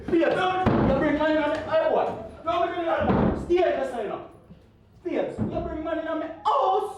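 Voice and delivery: nagging wife. Acted. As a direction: press him for money. Wife demanding money.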